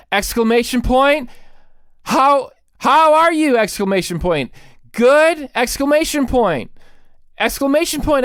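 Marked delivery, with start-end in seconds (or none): 2.0-3.6 mock gushing. Reading gushing text aloud. 4.9-5.5 mock gushing. Reading gushing text aloud.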